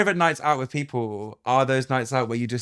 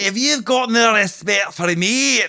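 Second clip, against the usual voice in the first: mock offence; 9 semitones higher, 6 dB louder than usual. Mock offended at friend's teasing.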